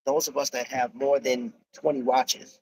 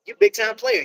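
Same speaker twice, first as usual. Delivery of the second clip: hype shout; 4 dB louder than usual. Real, not acted. Hyping a friend on stream.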